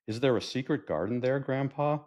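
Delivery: a hint of a child's questioning voice, lifting at the end; lightly voiced granddaughter. Granddaughter asking her grandpa, lightly voiced child. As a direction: lightly play the curious grandchild. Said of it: "grandfather passing along a legacy to his granddaughter".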